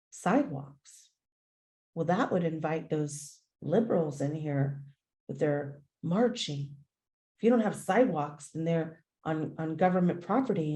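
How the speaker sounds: lightly voiced uptight neighbor, low and grumbling; a hint of a prim, scandalized resident; mock repressed neighbor. Neighbor scoffing at sidewalks, mildly mocked. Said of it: "very repressed, very broken person said".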